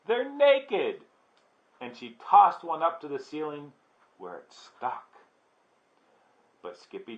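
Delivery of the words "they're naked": high, gleeful squeal; giggly. A narrator's reading. Sister giggling about the noodles, high and giggly. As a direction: squeal the naughty word, much higher.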